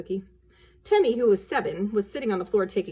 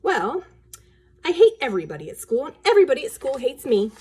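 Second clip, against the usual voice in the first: put-on loud, whiny girl voice; sulky child; 4 semitones higher, 5 dB louder than usual. Daughter tells mother she hates school, whiny and loud. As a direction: pout it out like a sour little girl.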